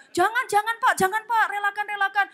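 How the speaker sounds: hammed-up graveside restraint; mock pleading. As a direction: plead with a widower to let go. Mourners restraining grieving widower.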